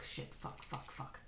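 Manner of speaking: under-breath curses after a slip; whispered swearing. Real, not acted. Muttered swearing after a mishap.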